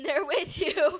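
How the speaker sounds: tearful laugh slipping into the words; teary, laughing half-sob; laughing through tears. Real, not acted. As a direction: laugh and choke up at once. Emotional about late grandma.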